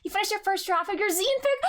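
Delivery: normal talking voice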